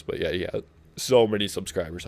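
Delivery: talking through hiccups; hiccuping between words. Real, not acted. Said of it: "Got the hiccups here".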